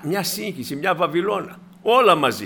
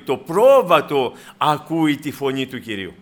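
πρόβατο punched louder than the rest; stress on πρόβατο; 2 semitones lower, 5 dB louder than usual. Real, not acted. Preacher sets the sheep against other animals, emphatic stress on πρόβατο. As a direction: land hard on πρόβατο as the one exception.

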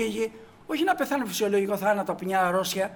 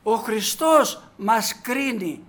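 slow solemn emphasis; 3 dB louder, much slower than usual. Acted.

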